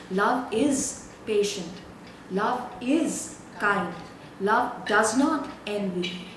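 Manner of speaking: slow, measured reading with each line weighed; slow scripture reading. Acted. Pastor reading Corinthians slowly to the congregation, measured. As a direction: let every phrase land, one at a time.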